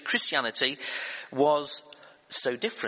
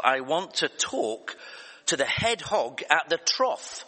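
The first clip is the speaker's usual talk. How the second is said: lightly imitated countrified Texan caller; Texan drawl; 2 semitones higher than usual. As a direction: repeat it in a slow, mild Texan drawl. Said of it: "The guy repeats himself".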